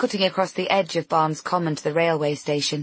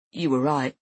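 voice breaking; 3 semitones lower than usual. Acted. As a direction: voice cracking with emotion. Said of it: "his voice breaking".

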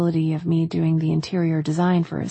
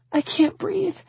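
very high, tearful voice; panicked; 13 semitones higher than usual. A narrator's reading. Woman falling apart in his arms, panicked. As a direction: squeeze it out in high distress. Breaking down, cannot breathe.

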